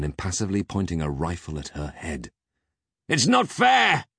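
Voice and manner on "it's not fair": high, loud, petulant protest; bitter. A narrator's reading. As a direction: cry out in bitter complaint. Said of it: "Peg's bitter mumble cracked across his lips".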